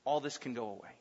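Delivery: low, hushed temptation with long pauses; quiet, insinuating devil's offer; Satan tempting. Acted. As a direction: tempt softly, dropping low and letting each promise hang. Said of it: "he heard the words of Satan".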